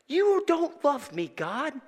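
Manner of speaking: high, mounting mock outburst, loud by the end; retold anger at God. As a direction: act out an upset complaint to God. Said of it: "I was really angry with God".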